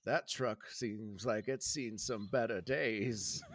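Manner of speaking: lightly voiced old man, kindly; a hint of a frail old gas station owner; elderly gentleman. Old man greets the boys at the gas station, lightly voiced. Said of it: "an elderly gentleman comes out".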